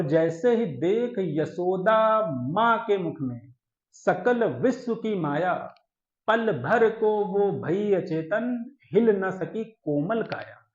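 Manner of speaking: slow, lilting poem delivery; slow verse with stretched vowels; verse recitation. Acted. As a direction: recite in drawn-out, measured phrases.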